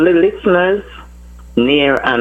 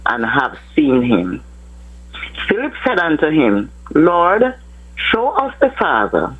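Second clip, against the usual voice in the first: slow, measured Bible reading; scripture reading. Acted. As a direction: read the verses with reverent pauses. Caller reads scripture aloud.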